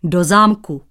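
loud, huffy retort. Acted. Painter huffing at the cobbler, irritated. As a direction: snap back offended. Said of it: "durdil se cizinec".

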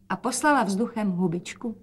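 usual speaking voice

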